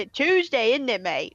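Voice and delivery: a hint of a British accent, "Tuesday" stressed; mock British accent. Friend mocking how a British person talks, hint of British accent. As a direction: lightly put on a British accent. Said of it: "just say".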